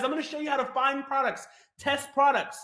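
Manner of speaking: deliberate recap, step by step; slowed down. Real, not acted. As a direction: space out each step for listeners. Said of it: "Maybe I'm talking too fast".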